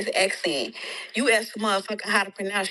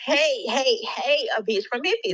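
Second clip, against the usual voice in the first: hammed-up hater rant; mock ranting; 3 semitones higher, 4 dB louder than usual. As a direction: hammer the hate like the poster. Repeating the insult mockingly.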